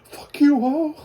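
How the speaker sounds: high, very loud hammed-up yell; mock abusive shout. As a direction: parody an abusive boyfriend exploding. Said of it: "he's also not abusive".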